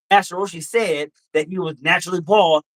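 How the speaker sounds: heated, emphatic correction; yelling. Real, not acted. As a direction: argue it forcefully, punching the show's title. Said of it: "Why are you yelling at me?".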